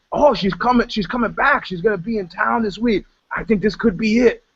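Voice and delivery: imitating his lovesick younger self; excited hope. Telling his bandmates his ex is coming back, eager.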